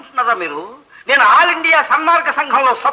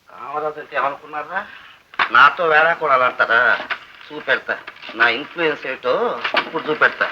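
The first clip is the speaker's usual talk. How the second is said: much lower and softer, grumbling to himself; low muttered threat; 12 semitones lower, 5 dB quieter than usual. Acted. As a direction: mutter the threat under your breath. (తనలో తాను గొణుక్కుంటూ బెదిరింపు)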